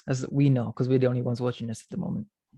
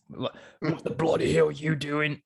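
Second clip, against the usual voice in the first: slow, put-on English accent; badly faked English accent, drawn out; slower than usual. Shown as a demonstration. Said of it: "No, I can't do it".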